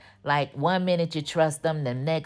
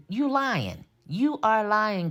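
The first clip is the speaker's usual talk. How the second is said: higher-pitched, stretched-out accusation; scolding accusation; 4 semitones higher, slower than usual. Retold or imitated. Viewer calling out Fatima for lying, scolding. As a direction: call out the lie in a raised pitch.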